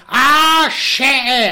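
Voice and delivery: high, loud scared cry; panicked yelp. Retold or imitated. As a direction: squeal in fright as Kim. Scared Kim voiced.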